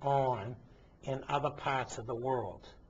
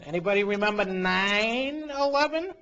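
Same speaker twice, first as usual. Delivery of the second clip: loud and higher, demanding an answer; indignant outburst; 7 semitones higher, 8 dB louder than usual. Real, not acted. Host challenging listeners on air, loud indignant call. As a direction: throw the question at the audience like an accusation.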